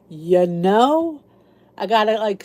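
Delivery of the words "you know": rising Philly "you know?"; Philly accent. Shown as a demonstration. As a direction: lean into a Philly accent, questioning. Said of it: "I got that Philly accent going".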